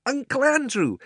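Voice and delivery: high, loud shout of recognition. Acted. Diggory remembers, shouting out the name. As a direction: burst out the name as it comes back. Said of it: "he shouted out".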